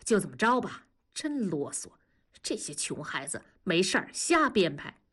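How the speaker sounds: a touch of impatience, brushing it off; impatient. Acted. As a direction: wave it away, mildly fed up. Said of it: "文丽不耐烦地说".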